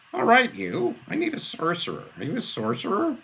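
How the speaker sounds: a high, loud urgent demand; hissed demand. A narrator's reading. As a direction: lean in and demand it. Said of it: "leaned over the table and hissed".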